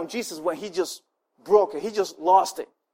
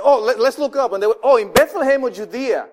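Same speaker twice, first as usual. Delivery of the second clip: scribes answering Herod; 3 semitones higher, 4 dB louder than usual. Retold or imitated. Scribes answering Herod's question, lightly voiced. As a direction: play the eager scribes, lightly. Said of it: "And they said".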